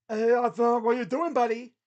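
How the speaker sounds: loud shout at a player; exasperated call-out. Real, not acted. Commentator to Arthur after a bad pass, loud call-out. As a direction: holler at him after the blunder.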